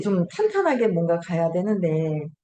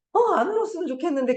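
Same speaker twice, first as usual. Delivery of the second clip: high, fast mock-tearful plea; light mock of someone fighting tears; imitating a tearful person; 10 semitones higher, faster than usual. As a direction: play a weepy speaker begging herself not to cry. Quoting a crying person.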